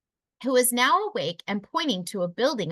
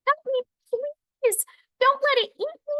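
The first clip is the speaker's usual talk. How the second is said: panicked scream; 3 dB louder than usual. Acted. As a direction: plead for your life from the beak. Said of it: "Aqua screamed".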